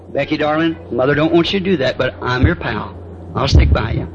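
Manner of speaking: low, confiding parent to a daughter; gentle coaxing. Acted. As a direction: model a reassuring talk, pitched low. Models gentle talk to his daughter.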